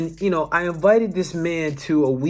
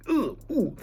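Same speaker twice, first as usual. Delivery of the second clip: high, short recoiling oohs; uneasy oohs; 8 semitones higher, 3 dB quieter than usual. Retold or imitated. Feeling people's energy in the gym, uneasy oohs. Imitates reacting to heavy energy.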